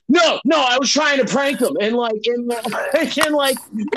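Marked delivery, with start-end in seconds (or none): 0.1-1.8 shouted high no, no; panicked protest of innocence; frantic denial. Retold or imitated. Driver shouting down the radio, frantic denial. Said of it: "And he had to be like".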